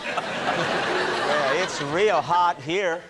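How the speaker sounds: slow sultry American phone voice; a slow, teasing mock American hotline voice. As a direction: purr it like a flirty hotline. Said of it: "it's not one of those lines".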